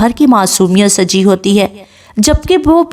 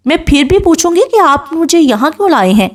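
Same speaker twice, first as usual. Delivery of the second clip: higher-pitched, stubborn questioning; insistent anger; 7 semitones higher, faster than usual. A narrator's reading. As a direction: press for an answer, annoyed. Angry wife insists on answer. (غصے بھرا اصرار)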